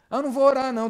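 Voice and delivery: high, loud mock-child protest; refusing child. Child refusing to pray, loud mock protest. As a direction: imitate a kid digging in.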